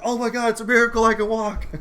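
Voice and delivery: high, loud, fast miracle cry; hammed-up exclamation of a miracle; mock amazement. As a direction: imitate someone crying out in sudden amazement. Acted sarcastic movie line.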